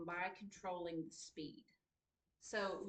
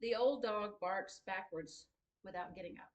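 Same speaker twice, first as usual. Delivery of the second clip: read aloud slowly. Shown as a demonstration. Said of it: "Say it out loud".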